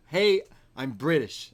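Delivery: laughing, hammed-up Brit voice, a bit slow; laughing mock British accent. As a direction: sell being British with a chuckle. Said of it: "he is getting across".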